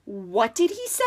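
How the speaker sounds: half-asleep mumbled question; lightly voiced drowsy character; sleepy groan. A narrator's reading. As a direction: groan it as if just woken. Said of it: "Tyson groaned, half asleep".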